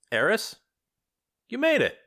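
a grieving woman putting on a brave face; grieving friend. Acted. Ariana greets Eris.

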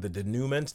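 tentative "denouement" with an oo and English ending; questioning "denouement", said de-NOO-ment; unsure pronunciation. Shown as a demonstration. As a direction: try "denouement" as de-NOO-ment, sounding the final t. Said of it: "not sure how you say this word".

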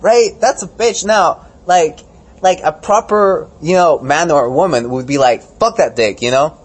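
high, loud, worked-up rant; heated rant. Real, not acted. Ranting to friends about Ted Cruz, high and loud.

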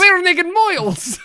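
put-on high, slow Transylvanian accent on moils. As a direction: say moils like a Transylvanian count, stretched out. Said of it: "I did my Transylvanian accent again".

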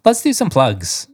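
upbeat host announcement; announcer voice. Shown as a demonstration. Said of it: "Why don't you say it like".

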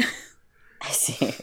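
breathy whispered aside; whispering. Real, not acted. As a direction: drop to a whisper. Repeats "I see" in a whisper.

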